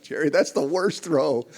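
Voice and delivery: loud, high teasing through laughter; laughing at a friend's feeble chair throw. Real, not acted. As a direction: crack up while mocking the throw. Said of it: "I remember laughing".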